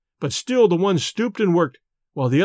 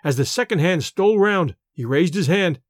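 plain reading voice

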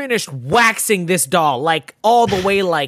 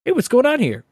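breezy, higher mock greeting; very nonchalant; 4 semitones higher than usual. Imitating cop seconds after she finishes firing, breezily nonchalant. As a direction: toss it off with no urgency. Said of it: "Like, very nonchalantly".

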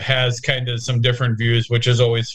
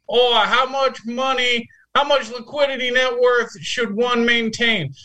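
bad Australian accent; 11 semitones higher than usual. Co-host mocks listener Ben with a failed Australian accent. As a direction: attempt Australian and miss badly. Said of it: "doesn't he have an accent".

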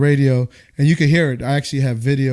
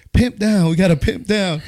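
buddy's urgent radio call; 6 semitones higher than usual. Retold or imitated. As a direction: raise the alarm on the radio, pitched high. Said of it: "He goes".

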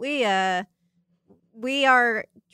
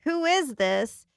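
dramatic announcer; 4 semitones higher, 4 dB louder than usual. Pretend. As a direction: build up the big reveal. Dramatic introduction.

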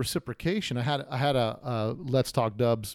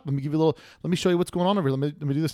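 much higher, eager shopkeeper greeting; mock excited welcome; 6 semitones higher, 4 dB louder, faster than usual. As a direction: play the thrilled shop guy welcoming a customer. Imagined stoked shop staff welcoming.

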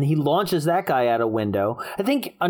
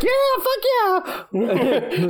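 high squeaky monkey voice, far higher; Bonzo monkey voice; 14 semitones higher, slower than usual. Pretend. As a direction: voice a drunk monkey.

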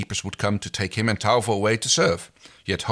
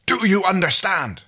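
stern demanding father; 13 semitones higher, 5 dB louder than usual. Acted. Father grabs son, demands.

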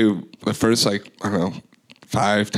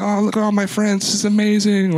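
very high-pitched carefree gushing; happy-go-lucky; 12 semitones higher, 3 dB louder than usual. Retold or imitated. DJ hanging out backstage with friends, happy-go-lucky gushing. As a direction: imitate yourself giddy and carefree, way up high. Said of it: "happy-go-lucky".

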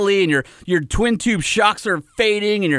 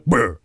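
deep rumbling burr; 10 semitones lower than usual. Retold or imitated. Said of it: "It goes".

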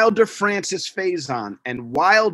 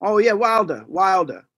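WILDER said British-style as "wil-duh"; British accent; 2 semitones higher than usual. Retold or imitated. Dad imitating British parents' name, "Wilder" in British accent. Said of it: "they both have British accents".

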